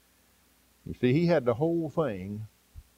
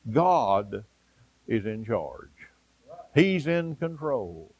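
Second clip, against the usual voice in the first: slow and careful; 3 semitones lower, much slower than usual. Shown as a demonstration. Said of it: "Let me explain it to you very carefully".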